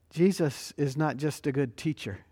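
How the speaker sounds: usual speaking voice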